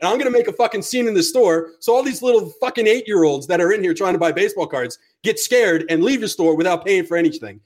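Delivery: nonstop tirade, acted out in retelling; retold angry rant. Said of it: "I'm just, I'm laying into him".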